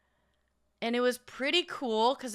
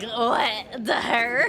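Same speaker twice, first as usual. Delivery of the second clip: surprised; 5 dB louder, much slower than usual. Retold or imitated. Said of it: "I was like".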